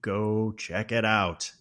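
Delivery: drawn out, slow playful taunt; slow mocking repeat to his wife. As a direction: stretch each word out to mock her. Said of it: "just playing with her".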